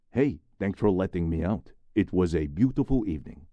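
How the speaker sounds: bright, grateful and lively; cheerful. Acted. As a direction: thank him with relief. Prisoner speaks to officer.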